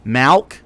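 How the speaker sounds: Malk with a broad open vowel. Shown as a demonstration. Mocking the Malk crowd, Malk said as mowlk. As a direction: say Malk drawn wide like mowlk. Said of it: "Milk, Malk".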